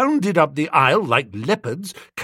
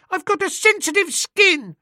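put-on much higher, boyish pleading; whining choirboy. A narrator's reading. Choirboy excusing himself to the vicar, high whine. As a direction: plead like a caught small boy.

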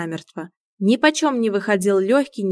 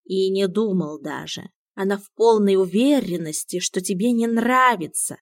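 indifferent. Acted. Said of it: "как можно равнодушнее сказал кот".

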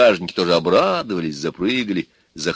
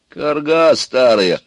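higher, louder, drawn-out jeer; scornful insult; 6 semitones higher, 6 dB louder, much slower than usual. Acted. Ivan rejects Baba Yaga's offer, scornful. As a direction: throw the insult slowly and scornfully.

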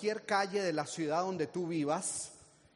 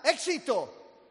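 mild shout; 4 semitones higher, 3 dB louder, much slower than usual. Shown as a demonstration. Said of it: "Pero ve y grita".

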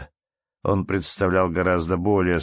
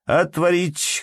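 sharp high shouted order; 10 semitones higher, 3 dB louder, slower than usual. A narrator's reading. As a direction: bark the command much higher. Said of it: "крикнул он унтер-офицеру".

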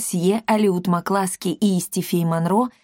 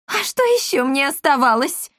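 high, wide-eyed plea; goggle-eyed protest; 7 semitones higher than usual. A narrator's reading. Esmeralda staring wide-eyed at her husband. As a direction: act amazed at the question. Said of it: "выпучила глаза Эсмеральда".

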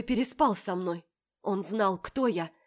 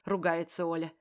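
plain reading voice

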